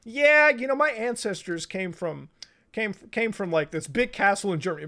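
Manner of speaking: high, mocking voice for a third generation American; mock proud American. Mocking a third generation American bragging about ancestry, high and silly. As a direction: lampoon someone bragging about German castle roots. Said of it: "a third generation American's like".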